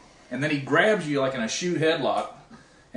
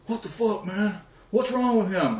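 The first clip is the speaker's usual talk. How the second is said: mock protest; 6 semitones higher than usual. Retelling the opponent's bewildered protest.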